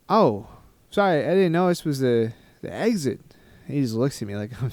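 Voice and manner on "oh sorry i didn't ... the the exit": apologetic. Retold or imitated. Acting out his apology to official.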